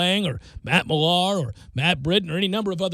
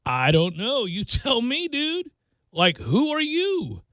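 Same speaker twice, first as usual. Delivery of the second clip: sarcastic; 5 semitones higher, slower than usual. Retold or imitated. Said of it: "and sarcastically I said".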